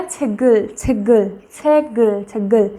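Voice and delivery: छेगुल with g opening the second syllable; linked g sound. Shown as a demonstration. Teacher showing the object form of book, छेगुल with a g sound. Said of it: "jump करेगा तो ग sound करेगा".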